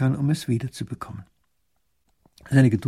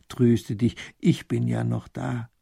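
tender comfort; slower than usual. Acted. Princess comforts her father.

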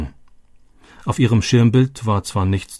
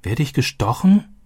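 higher, a touch of fright; a scared little question, pitched up; startled child asking; 5 semitones higher than usual. A narrator's reading. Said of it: "Robbie erschrak". (erschrockene Kinderfrage, höher)

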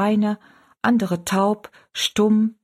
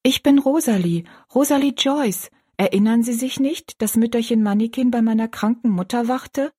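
put-on higher, eager girl voice; a lightly voiced girl, hopeful; little girl; 4 semitones higher than usual. Rosalie, girl voice in story. (Rosalie, mit höherer Mädchenstimme)

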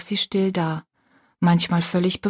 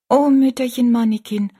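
put-on higher, louder child's cry of gratitude; grateful exclamation; 5 semitones higher, 5 dB louder than usual. A narrator's reading. Rosalie hugs the little old woman, exclaiming gratefully. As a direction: call out her name gratefully, voice raised.

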